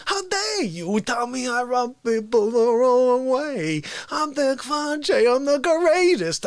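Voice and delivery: slow, indignant bragging voice; arrogant Fauci. Retold or imitated. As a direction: insist you are the greatest. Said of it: "He goes".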